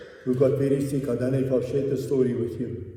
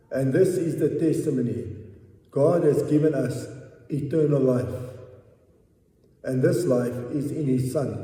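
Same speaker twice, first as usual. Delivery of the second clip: measured Bible reading, a touch raised; scripture reading. Acted. Preacher reading First John to the congregation, measured reading voice. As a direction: read the verse out with weight.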